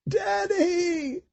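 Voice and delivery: put-on high child's cry over the noise; girl shouting.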